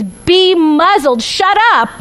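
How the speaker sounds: slow firm order rising to a sharper shut up; stern command. Retold or imitated. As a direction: bark it at the storm, building. Jesus commanding wind and waves.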